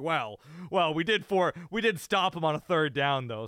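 defensive, halting, stumbling delivery. Imitating Belichick making excuses after a press conference: imitating Belichick making defensive excuses. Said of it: "He's trying to make excuses for it".

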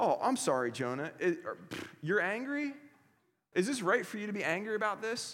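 sarcasm swinging high. Retelling God's reply to Jonah: God, mock-sarcastic. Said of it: "This is God being sarcastic".

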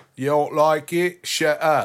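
high put-on British accent. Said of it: "With a British accent".

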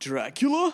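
high-pitched, clueless nineties surfer-dude voice. Retelling a badly acted film scene: imitating Keanu Reeves as surfer dude. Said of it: "like some surfer dude from the nineties".

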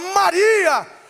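loud exclaimed call. Speaker acting out a bible scene for listeners, exclaiming a name. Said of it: "Tem uma exclamação aí".

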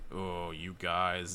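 slow, grumbled aside.

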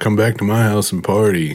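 imitated Southern drawl. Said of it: "they had this, like, southern draw".

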